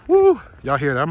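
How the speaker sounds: panting after the climb; breathless, gasping between words; out of breath. Real, not acted. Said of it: "I'm out of breath".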